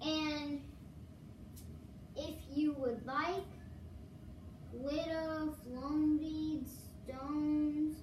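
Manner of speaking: slow, even robot voice. Acted. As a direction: talk like a robot, slowly. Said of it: "I'm doing my robot voice".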